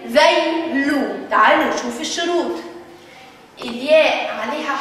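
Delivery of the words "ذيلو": ذيلو said very slowly, both syllables drawn out; slow teaching pronunciation of ذيلو; sounding out. Shown as a demonstration. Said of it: "ياء سكون ذي".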